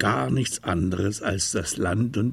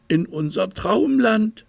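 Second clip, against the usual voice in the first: put-on raised, bright childlike bear voice; little bear voice; 12 semitones higher, 4 dB louder than usual. A narrator's reading. Little bear telling the crow about dreamland, high eager voice.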